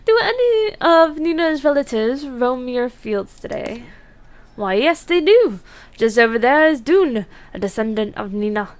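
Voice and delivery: attempted Irish accent, lively and lilting; cheery amateur Irish brogue. Player asking a breeder about Nina's relatives, attempted Irish accent. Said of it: "if I offend anyone with that accent".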